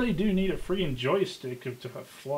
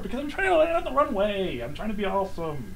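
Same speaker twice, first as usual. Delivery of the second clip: gobbling turkey voice; 5 semitones higher, 4 dB louder than usual. Real, not acted. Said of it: "You sound like a turkey".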